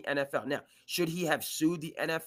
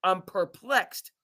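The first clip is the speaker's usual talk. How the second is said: mock dramatic; much slower than usual.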